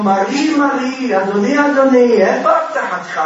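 high, loud acted reproach; yelling at husband. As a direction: imitate a widow crying out at her husband. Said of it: "היא ישר צועקת עליו".

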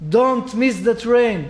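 put-on very slow, heart-stirring old rabbi's plea; Rabbi Nissim Yagen's trembling voice. A revered rabbi warning his listeners, very slow and stirring. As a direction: stretch each word out like a stirring warning. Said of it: "בקולו המרעיד הלבבות".

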